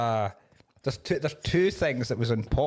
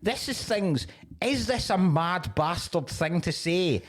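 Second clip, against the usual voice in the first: exasperated retort; 5 semitones higher than usual. Retold or imitated. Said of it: "And you're like".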